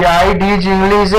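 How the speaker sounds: very slow, English stressed; teacher repeats it slowly; slow demo sentence. Shown as a demonstration. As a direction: draw it out, leaning on English. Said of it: "अब ये".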